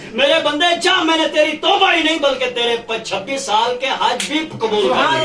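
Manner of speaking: loud, high proclamation from heaven; divine voice. Acted. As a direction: call it out like God's decree. Voice from heaven announces.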